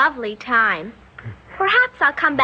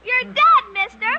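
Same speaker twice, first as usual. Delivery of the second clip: playful gunshot noises; 9 semitones higher, slower than usual. Acted. Little girl playing at shooting the shopkeeper, gleeful. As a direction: shoot him with gleeful pretend bangs.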